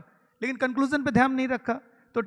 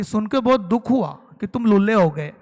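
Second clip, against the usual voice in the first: mocking fake sympathy; 2 semitones lower, 6 dB louder than usual. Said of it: "Shakti Kapoor उनके साथ sympathetic कैसे होता है".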